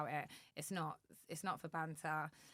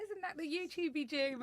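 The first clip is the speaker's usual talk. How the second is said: mock sneer; 11 semitones higher than usual. Mimicking sneering interviewer.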